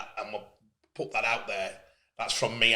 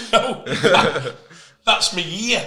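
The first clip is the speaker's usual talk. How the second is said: retold protest; 5 semitones higher, 8 dB louder, much slower than usual. Retold correction of a salary guess.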